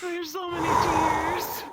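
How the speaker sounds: half sob, half laugh; tearful. Real, not acted. Player crying and laughing.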